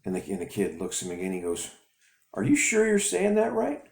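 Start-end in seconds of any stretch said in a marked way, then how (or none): 2.3-3.8 high mocking taunt; taunting bully. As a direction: sneer like a schoolyard bully.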